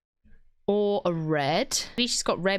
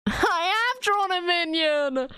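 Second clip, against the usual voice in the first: high-pitched, laughing admission; laughing realisation; 7 semitones higher than usual. Real, not acted. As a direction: admit it in amused disbelief. Realises her drawing is a minion.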